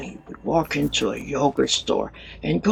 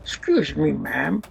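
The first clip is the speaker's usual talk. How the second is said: imitated British accent; 4 dB louder than usual. Johnny in acting class, mock British accent. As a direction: put on a polite British accent. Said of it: "like, a British accent".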